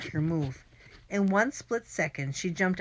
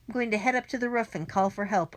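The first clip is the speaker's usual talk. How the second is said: yelled; 5 semitones higher, faster than usual. Acted. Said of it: "Irwin yelled".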